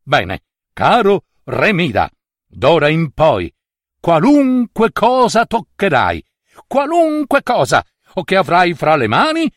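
lofty god speaking grandly; a proud god granting a wish; solemn divine pronouncement; Dionysus, god voice. Acted.

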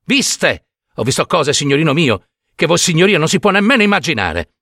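lightly voiced anguished old storyteller; an old woman insisting on what she saw; distressed old peasant woman. Old peasant woman confiding horrors to the doctor, distressed.

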